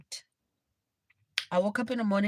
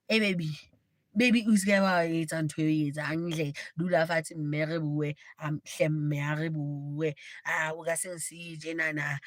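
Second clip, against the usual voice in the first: put-on pleading boyfriend; 4 semitones lower than usual. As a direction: beg her not to leave. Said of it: "this guy walks in".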